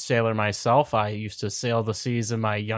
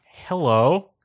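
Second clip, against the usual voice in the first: character voice; 3 semitones higher, 4 dB louder, slower than usual. Acted. Player voices character greeting crew.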